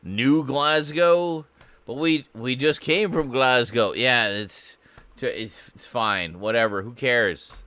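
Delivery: loud, high hammed-up Scottish settler; mock Scottish settler. Settlers reply.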